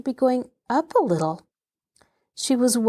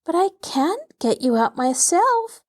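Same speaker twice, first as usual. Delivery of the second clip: screamed back crying; 8 semitones higher than usual. A narrator's reading. Frightened girl shouting down to cousin, crying. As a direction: call down helplessly through tears. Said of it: "screamed back Betsy, crying herself".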